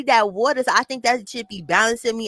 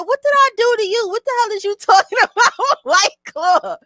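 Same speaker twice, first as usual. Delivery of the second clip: high, loud, indignant retold yell; outraged yell; 12 semitones higher, 6 dB louder than usual. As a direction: shout it like you're offended. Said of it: "I said".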